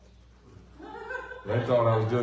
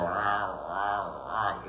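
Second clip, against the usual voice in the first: mock VCR growl; 4 semitones lower, 4 dB quieter, much slower than usual. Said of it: "we used to have a V C R go".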